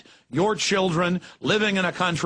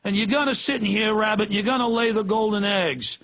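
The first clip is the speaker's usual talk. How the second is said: cartoon gangster voice; 4 semitones higher than usual. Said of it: "And they're like".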